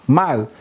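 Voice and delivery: Mal said as one short syllable, stopped dead after the l; short clipped syllable. Shown as a demonstration. Teacher showing the class how the vowel point stops the sound, short stopped Mal. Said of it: "It's short".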